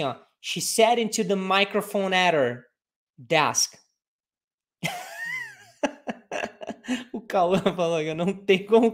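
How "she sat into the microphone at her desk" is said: "at her desk" run together naturally; teacher modelling the full sentence in natural connected speech; natural linked speech. Shown as a demonstration. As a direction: say it smoothly with linked words. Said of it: "Você fala assim".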